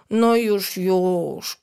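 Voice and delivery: soothing. Acted. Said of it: "uspokajała ją wychowawczyni".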